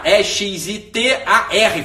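"E X I T A R" spelled slowly, letter by letter; slow deliberate spelling of E X I T A R. Shown as a demonstration. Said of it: "é hesitar".

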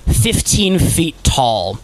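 game master narration. Acted. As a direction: draw out the monster's entrance. Game master describes the archdemon's arrival.

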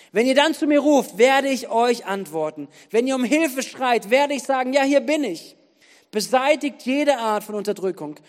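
firm proclamation with punched commands; emphatic scripture reading. Acted. Preacher reads Isaiah's call to free the oppressed, emphatic scripture reading. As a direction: declaim each line like a charge to the people.

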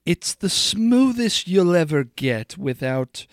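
slow, drawn-out commercial voice; fake ad read. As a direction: savor each word like a TV ad. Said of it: "some ad read for Toast real quick".

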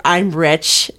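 mock fake British accent of a rich lady. Describing the actress's fake British accent, mock British. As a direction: put on a not-quite-British rich-lady accent, lightly. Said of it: "but not actually British voice".

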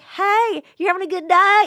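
high, bright customer-service hello; overly friendly greeting. Retold or imitated. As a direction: pour on the Southern charm. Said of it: "my Southern charm".

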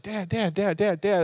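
put-on high-pitched chattering kid voice; pestering daughter. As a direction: imitate a child nagging nonstop for attention. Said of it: "She talks all the time".

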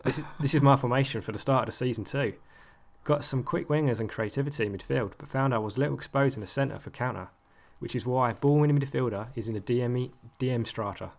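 light attempt at an Australian accent. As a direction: read it like an Aussie, half-hearted. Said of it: "I've gone back to my usual accent now".

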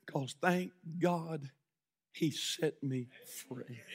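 almost whispered gratitude; quiet sincere confession; hushed testimony. Acted.

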